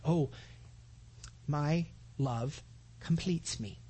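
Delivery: slow, soft, swooning love line; mock sweet endearment. Preacher mimicking a sentimental lover, mock tender. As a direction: croon it like a sappy romantic. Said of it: "a real term of endearment statement".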